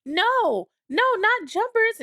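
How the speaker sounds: very high-pitched mock wail; imitated crying child. Daughter hearing the dog has died, imitated tearful wail. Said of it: "she just started crying".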